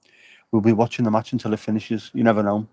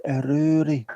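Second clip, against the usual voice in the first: mock bird call; 5 semitones higher, slower than usual. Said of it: "Maybe that's what they're shouting".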